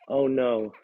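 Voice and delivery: sudden loud burst of dismay; blurted alarm. Acted. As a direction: panic that the plan fails. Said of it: "I blurted".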